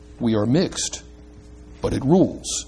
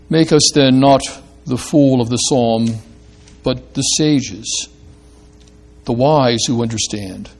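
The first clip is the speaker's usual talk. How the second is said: measured, reverent pastoral prayer. Acted. Preacher leading the congregation in closing prayer, reverent and measured. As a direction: address God calmly, phrase by phrase.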